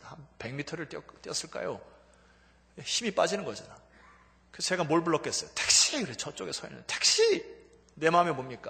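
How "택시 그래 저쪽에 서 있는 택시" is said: ordinary talk, nothing marked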